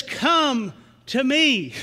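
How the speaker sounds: drawn out gentle invitation; Jesus' gentle call; slow inviting. Shown as a demonstration. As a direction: offer it slowly and kindly. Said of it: "when Jesus says".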